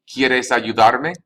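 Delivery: ayudarme drawn out with a rising end; slow model phrase. Shown as a demonstration. Teacher slowly models the question for the class. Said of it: "teacher models slowly".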